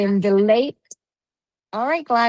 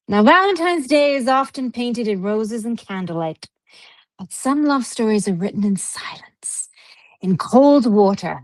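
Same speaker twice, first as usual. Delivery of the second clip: hushed spooky storyteller whisper. Acted.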